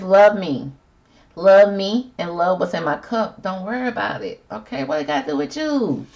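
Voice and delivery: emphatic plea climbing to a high challenge; acted defensive retort. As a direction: brush off the question, ending high and indignant. Voicing Ben defending his drinking.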